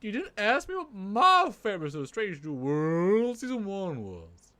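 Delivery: lightly hammed Southern colonel, stretched key words; Colonel Sanders voice. Puppet colonel prompts host for a question, colonel voice. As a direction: complain as a Southern-fried colonel. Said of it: "using the Colonel Sanders voice".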